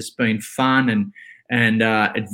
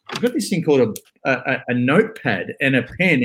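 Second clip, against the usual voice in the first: speeding up to reveal. Shown as a demonstration. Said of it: "hang on, hang on, wait for it".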